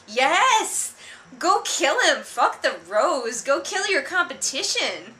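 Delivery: loud, high cheer egging the villains on; root for the bad guys like a rowdy fan; shouting encouragement at a fight; mock cheering.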